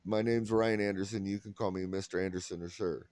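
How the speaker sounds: low, clipped and curt, mock formal; stiff formal introduction. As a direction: keep her at arm's length, low and quick. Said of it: "when I introduced myself".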